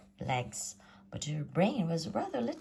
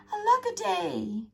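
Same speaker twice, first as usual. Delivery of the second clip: a high, louder wail of woe; lament; 5 dB louder than usual. A narrator's reading. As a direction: cry it out like a hammed-up lament. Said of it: "And he cried".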